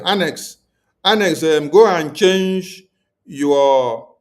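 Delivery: loud call-out to a viewer. Real, not acted. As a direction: raise the voice to scold. Calling out a viewer by name.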